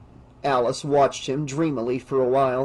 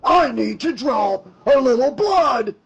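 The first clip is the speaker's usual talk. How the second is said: higher, louder mocking sneer, drawn out; sneering villain; 10 semitones higher, 3 dB louder, slower than usual. Monster posing as nurse taunts the girl, sneering. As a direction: sneer it slowly as a gloating monster. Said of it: "He laughed deep in his chest and sneered".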